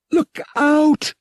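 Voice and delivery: high, loud warning shout; sudden alarmed yell. A narrator's reading. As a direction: shout the warning to save him. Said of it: "Bria yelled".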